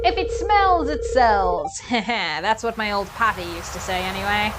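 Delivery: vague old sea-dog accent, lightly put on; Willy sailor accent. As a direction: play the old fisherman with a loose sailor accent. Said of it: "I don't know what accent I'm apparently doing".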